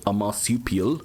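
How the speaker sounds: lightly South African "marsupial", lips pursed; South African accent. Shown as a demonstration. Gamer musing about kangaroo meat in a light South African accent. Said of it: "that's South African".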